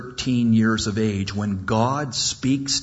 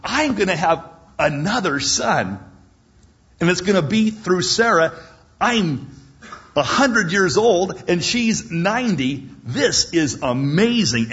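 higher, delighted voice full of wonder; thrilled; 5 semitones higher than usual. Acted. Abraham marvelling at a son through Sarah, higher and delighted. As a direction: sound thrilled at the news. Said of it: "He was just thrilled".

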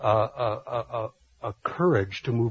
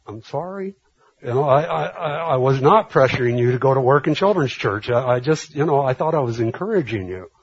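louder, pitched-up pleading; a hint of a flustered, louder apology; 3 semitones higher, 5 dB louder than usual. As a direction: insist you meant well. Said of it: "I'm going".

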